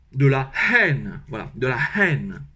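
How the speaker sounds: haine with a breathy aspirated H. Shown as a demonstration. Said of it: "j'expire le H".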